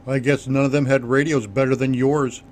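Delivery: a mild contemptuous jab. Acted. Hatchet scorns the survivors' radios, mildly contemptuous. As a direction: lightly sneer the comment. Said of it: "Hatchet commented contemptuously".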